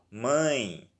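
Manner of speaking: MÃE drawn out slowly with a nasal vowel; slow, nasalized MÃE; nasal vowel example. Shown as a demonstration. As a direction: stretch MÃE through the nose. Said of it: "som mais anasalado".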